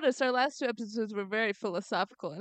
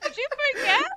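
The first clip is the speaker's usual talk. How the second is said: loud, high-pitched fake Italian accent; mock Italian accent; 13 semitones higher, 7 dB louder, faster than usual. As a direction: accuse in a hammed-up Italian accent. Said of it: "why are you doing an Italian accent".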